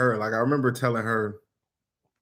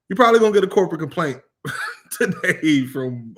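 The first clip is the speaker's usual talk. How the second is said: laughing confession; 4 semitones higher, 4 dB louder than usual. Retold or imitated. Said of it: "and I don't care".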